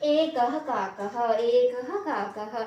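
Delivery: एकः काकः with the first ः only a brief puff before "kaa"; half visarga. Shown as a demonstration. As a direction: say "ekah-kaakah", running एकः straight into काकः. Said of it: "उच्चारण भी एक जैसा करना".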